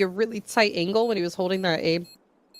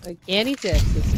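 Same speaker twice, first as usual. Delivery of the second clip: put-on Texan accent; 3 dB louder than usual. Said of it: "The accent switching is".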